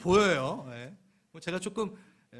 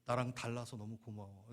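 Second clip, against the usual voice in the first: quiet thanks; 5 semitones lower, 10 dB quieter than usual. Shown as a demonstration. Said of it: "그럼 이렇게 얘기합시다".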